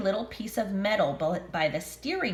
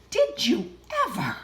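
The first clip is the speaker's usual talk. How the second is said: grandma voice; 6 semitones higher than usual. Acted. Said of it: "Grandma gasped".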